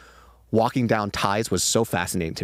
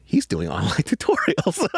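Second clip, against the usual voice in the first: whisper; 7 semitones higher than usual. Retold or imitated. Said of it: "I was like".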